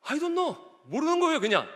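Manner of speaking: acted protest to God, building in pitch; arguing with God. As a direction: build from recounting to baffled complaint. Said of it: "하나님께 따지듯이 이렇게 고백을".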